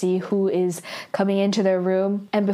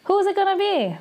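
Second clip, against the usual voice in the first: high dramatic cliffhanger question; dramatic teaser; 11 semitones higher, faster than usual. Shown as a demonstration. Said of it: "That's how this episode ends".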